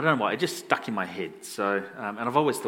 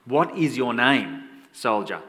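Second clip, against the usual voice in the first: slow, louder, deliberate question; stern questioning; 5 dB louder, slower than usual. Acted. Alexander the Great questions the soldier, stern. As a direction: space out the words as a firm demand. General repeats question after change.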